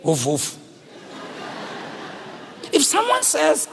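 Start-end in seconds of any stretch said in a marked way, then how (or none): 0.0-0.6 soft woof woof. Pretend. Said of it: "I mean, inja".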